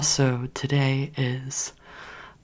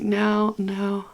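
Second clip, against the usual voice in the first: flustered disbelief; 7 semitones higher than usual. Retold or imitated. Reacting to crush signing up.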